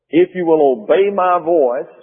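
"obey" brought out firmly in the verse; stress on obey. Shown as a demonstration. Preacher repeats the verse for the congregation, stressing "obey". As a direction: read the verse, pressing on "obey". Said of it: "I'm stressing the word obey".

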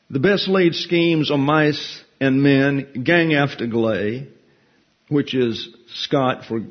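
slow, measured reading of the Burns verse; poem recital. Acted. Preacher reciting Burns to the congregation, slow and measured. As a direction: recite the lines slowly like a poem. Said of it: "four lines from To a Mouse".

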